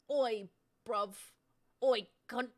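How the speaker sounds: loud cockney "Oi"; hammed-up British accent; mock British accent. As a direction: bark it like a London lad. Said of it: "A British accent".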